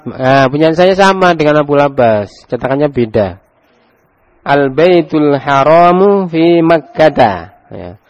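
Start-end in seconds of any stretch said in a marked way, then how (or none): 4.4-7.6 slow model reading. Shown as a demonstration. Teacher reads model sentence.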